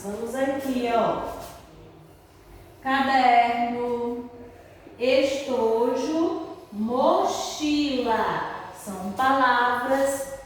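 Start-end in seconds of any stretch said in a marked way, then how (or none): 2.8-8.6 caderno, estojo, mochila drawn out slowly; teacher modelling three-syllable words; slow word list. Shown as a demonstration. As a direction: stretch each word for the class. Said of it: "reading list of example words".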